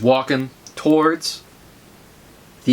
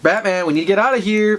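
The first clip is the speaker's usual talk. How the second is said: acted plea to get going; mildly raised, urgent call; urging; 3 semitones higher than usual. Urging Batman to get out of here, urgent.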